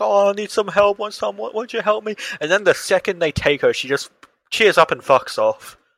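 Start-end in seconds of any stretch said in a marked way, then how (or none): 0.0-2.2 high, put-on sobbing, fake crying. Retelling how a suspicious old lady begged for help, imitating her fake crying. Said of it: "she starts fake crying".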